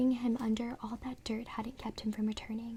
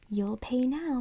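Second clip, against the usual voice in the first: growl; 2 semitones higher, 5 dB louder, slower than usual. Acted. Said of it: "Mister Wood growled".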